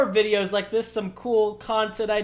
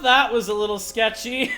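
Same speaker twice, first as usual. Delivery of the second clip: laughing. Real, not acted. Laughing at near crash.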